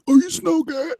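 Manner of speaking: mock fan squeal, way up high; high squeaky fan voice. A fan spotting the rider, high mock squeal. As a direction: squeak it like a starstruck stranger. Fan recognizing him, quoted.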